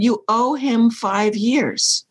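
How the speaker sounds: slow, measured inner voice; voice of God. Retold or imitated. Quoting the voice she heard in the kitchen, slow and measured. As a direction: speak it slowly like a calm oracle. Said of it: "And the voice said".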